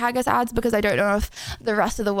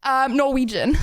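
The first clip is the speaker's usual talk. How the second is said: mock American; 2 semitones higher than usual. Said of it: "Americans be like".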